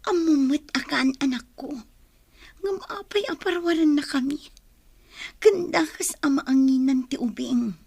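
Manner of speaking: hushed urgent whisper. Acted. Mother whispering a plea to the leader. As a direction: plead under your breath so none hear.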